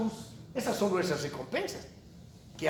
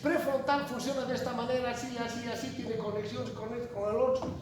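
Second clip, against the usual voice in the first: confident student explaining; 5 semitones higher, 4 dB quieter than usual. Retold or imitated. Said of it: "les van a hablar de ciertos conocimientos".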